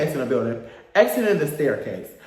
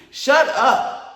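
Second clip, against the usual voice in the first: higher, cutting retort to a yapper; mock exasperated outburst; 7 semitones higher, 4 dB louder than usual. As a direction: act out cutting off the chatter. Snaps back at imitated yapping.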